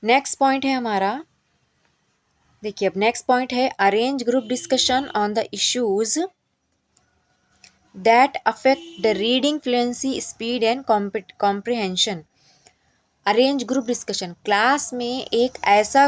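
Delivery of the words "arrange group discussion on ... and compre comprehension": reads the English point out very slowly, word by word; slow dictation reading. Acted. Teacher reading the training point aloud to trainees, slow and deliberate. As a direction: spell out the point slowly, as if for notes.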